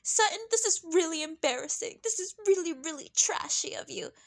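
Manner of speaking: mock fake disapproval. Mimicking a castmate scolding Sutton, mock fake disapproval. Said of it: "she's so fake. And she's like".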